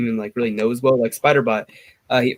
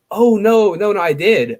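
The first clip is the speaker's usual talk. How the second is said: mock flustered denial; 6 semitones higher, 5 dB louder, slower than usual. Imitating friend's flustered denial.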